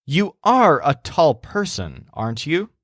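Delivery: mild doubt. Acted. Joel asks the shopkeeper if she's tall, mildly doubtful. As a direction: ask it with a touch of doubt. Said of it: "In his doubt, Joel asks".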